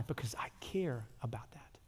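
whispered, tender and intimate; soft whisper of care. Real, not acted. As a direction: lean in and breathe it. Tender point on caring.

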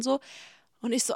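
normal talking voice

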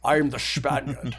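lightly put-on Scottish accent; a hint of a Scottish star playing a Spaniard; Sean Connery. Friend topping the movie-star joke in a light Scottish accent. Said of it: "just keep his regular accent".

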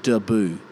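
Debut said "duh-BOO"; double-B pronunciation. Shown as a demonstration. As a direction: say Debut as "dubboo", short first syllable. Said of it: "if it was gonna be debut, there'd be a double B".

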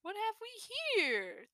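put-on soft, dry dusty old fox voice; voice like spilling dust. A narrator's reading. Storyteller greets the kits, soft dusty voice. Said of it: "with a voice like spilling dust".

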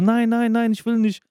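imitated pleading. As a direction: act out a kid hastily begging off. Acts out boy refusing police report.

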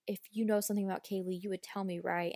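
ordinary talk, nothing marked

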